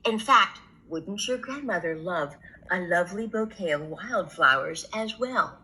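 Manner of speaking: low, coaxing wolf voice; a wolf sweetly luring; sly wolf. Acted. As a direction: tempt her off the path. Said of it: "said the wolf".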